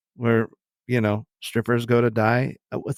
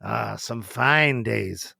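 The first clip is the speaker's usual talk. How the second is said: put-on nostalgic old-timer; slower than usual.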